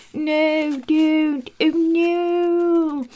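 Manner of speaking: high cry of dismay; a touch of mock weeping. Beauty finding the dying beast, mild mock crying. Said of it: "being like".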